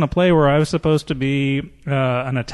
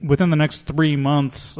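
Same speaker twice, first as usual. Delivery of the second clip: slow, deliberate; slower than usual. Shown as a demonstration. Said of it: "cast and crew is all breathing a sigh of relief".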